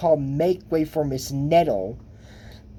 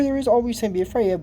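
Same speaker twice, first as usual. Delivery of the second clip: emphatic agreement; 6 semitones higher, much faster than usual. Real, not acted. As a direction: rush it out, agreeing strongly. Agreeing with the film's line.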